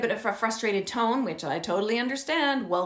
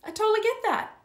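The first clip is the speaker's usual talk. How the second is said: cheerful agreeing parent; 11 semitones higher, faster than usual. Retold or imitated. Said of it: "I'd be like".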